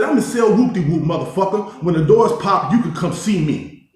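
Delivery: retold challenge.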